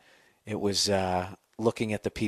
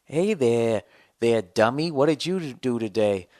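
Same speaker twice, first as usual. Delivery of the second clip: ventriloquist; 3 semitones higher, 3 dB louder than usual. Pretend. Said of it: "talk without moving my fucking lips".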